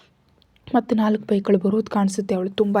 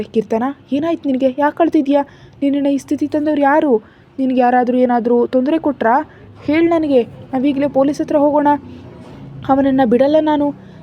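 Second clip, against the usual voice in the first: alarmed mother; 6 semitones higher, 6 dB louder than usual. A narrator's reading. Mother sees daughter sobbing.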